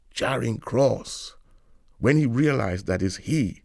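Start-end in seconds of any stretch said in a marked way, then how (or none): 0.1-1.4 slow, relishing Charing Cross, drawn out with pride; savoring romance. Retold or imitated. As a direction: say "Charing Cross" slowly, tasting every syllable. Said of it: "just to say Charing Cross have a lot of romance".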